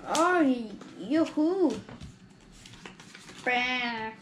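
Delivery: put-on a kid's goofy camel call; grumbling camel voice. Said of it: "that's not a camel sound".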